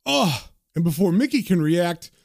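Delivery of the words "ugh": higher-pitched groan from a blow; short acted "ugh" of impact; pained grunt. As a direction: let out a winded grunt. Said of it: "Sam just lets out".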